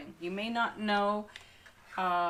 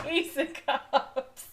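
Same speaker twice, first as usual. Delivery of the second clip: slow, high, delighted card name; excited; 7 semitones higher, 4 dB louder, slower than usual. Real, not acted. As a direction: savour the name with glee. Thrilled naming the card.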